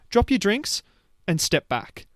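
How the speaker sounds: high-pitched opening, lightly mock command; imitated bossy shop lady. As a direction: mimic a store worker ordering a customer back. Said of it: "And then she goes".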